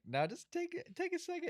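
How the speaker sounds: mock pushy drinker. Mimicking people urging drinks.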